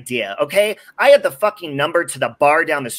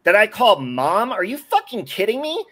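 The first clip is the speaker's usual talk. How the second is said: furious rant; 4 semitones higher than usual. Real, not acted. Son confronting his mother in chat, rising furious shout. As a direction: pitch climbing into a furious near-shout. Shouting at mom about respect.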